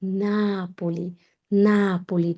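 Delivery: নাপোলি slowly, NAH-po-li; নাপোলি with stress on NA; নাপোলি in Italian; correct Italian Napoli. Shown as a demonstration. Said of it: "নাপোলি শহর না".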